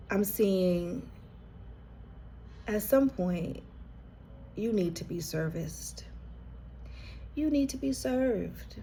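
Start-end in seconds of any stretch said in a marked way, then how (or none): 4.6-6.1 breathy unvoiced whisper, dropped soft; whispered aside. Real, not acted. Reader tells viewer they need care, whispering. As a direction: let the phrase "you need to be serviced" slip out as a hushed whisper.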